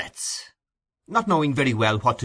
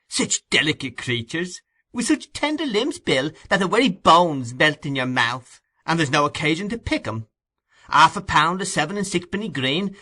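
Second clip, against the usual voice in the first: much higher, louder, gleeful; Charlie's boasting; 6 semitones higher, 4 dB louder than usual. A narrator's reading. Charley Bates shows off the stolen food, high gleeful voice. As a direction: crow over every treat. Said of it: "encomiums on their rarity".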